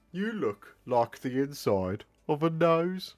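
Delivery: Black Country mock insult; Black Country accent. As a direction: jeer it like a Black Country villager. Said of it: "It's more Black Country".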